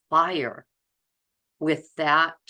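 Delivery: usual speaking voice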